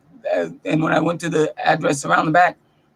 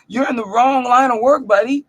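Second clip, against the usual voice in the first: heated retort; 6 semitones higher than usual. Retold or imitated. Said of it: "So I got heated".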